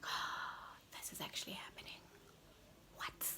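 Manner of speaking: soft, fast, whispered disbelief; panicked whisper. Retold or imitated. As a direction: whisper it as if you can't believe it's happening. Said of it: "I was freaking out".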